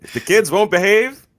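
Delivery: mock ad pitch.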